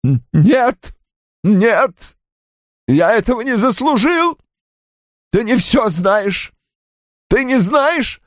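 high, stammering tearful refusal; crying protest. A narrator's reading. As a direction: protest through tears, pitch climbing. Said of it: "не переставая плакать". (протест сквозь слёзы, высоким голосом)

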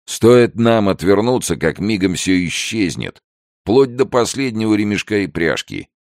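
put-on high-pitched wary old man; worried old trader. Old trader explains his distrust of onlookers, high and worried. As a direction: explain it fretfully, pitched well up.

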